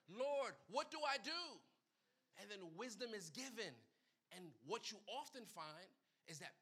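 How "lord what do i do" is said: crying to the Lord. Retold or imitated. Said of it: "they cry to the Lord".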